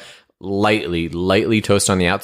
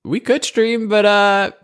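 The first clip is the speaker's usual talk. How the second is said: much higher, playful put-on voice; mock gentle letdown; 11 semitones higher than usual. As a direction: let your buddy down in a sweet, silly voice. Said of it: "I'm like".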